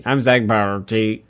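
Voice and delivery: slow, evenly paced robotic voice; old computer voice. Shown as a demonstration. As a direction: read it like an old speech synthesizer. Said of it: "like a weird, like, old computer voice".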